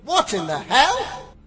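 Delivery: slow, loud outburst; startled exclamation. Acted. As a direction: blurt it out startled.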